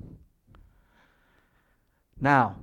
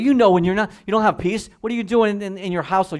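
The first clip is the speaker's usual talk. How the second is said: raised, much louder and higher rebuke; fiery preaching; 7 semitones higher, 8 dB louder than usual. Real, not acted. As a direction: hammer the question at the congregation. Preacher rebukes anger at home.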